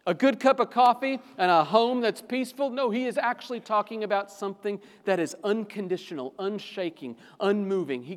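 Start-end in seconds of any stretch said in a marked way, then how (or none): 0.1-2.7 mock question. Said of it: "he cries out".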